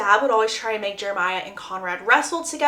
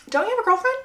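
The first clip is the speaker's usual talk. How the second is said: pointed jab; 11 semitones higher, much faster than usual. Acted. Conrad jealous confronting his brother.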